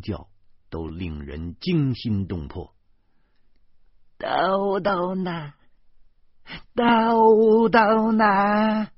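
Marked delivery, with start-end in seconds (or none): 4.2-8.9 long, high howl building to a loud scream; frantic howl. A narrator's reading. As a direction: howl for a lost child, louder on the repeat. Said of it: "他嗓子眼里嗷的一声". (撕心裂肺地拖长声嚎叫)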